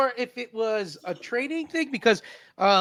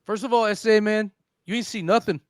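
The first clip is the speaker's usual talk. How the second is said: laid-back Chicano captain spinning his tale; easygoing homeboy captain telling his story; cholo captain; 2 semitones higher than usual. Pretend. Captain explains the bridge crash, laid-back cholo voice.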